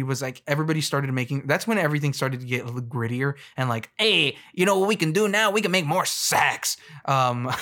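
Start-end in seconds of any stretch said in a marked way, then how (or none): 4.0-6.8 mock executive. Mocking TV executives' pitch.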